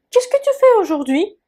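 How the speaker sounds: voiceless, secretive ask; whisper. Shown as a demonstration. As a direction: breathe the question with no voice. Teacher voices a casual question.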